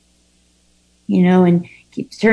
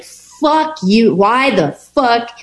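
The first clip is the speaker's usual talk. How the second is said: higher, slow resentful jab; mock angry retort; 4 semitones higher, slower than usual. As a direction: spit it out like a bitter outburst. Retold angry thought at others.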